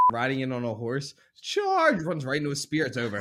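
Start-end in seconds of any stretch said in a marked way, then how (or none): 1.4-2.0 high, loud rallying yell; battle cry. Acted. Hosts act out a battle scene, battle cry. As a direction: shout it like a cavalry charge.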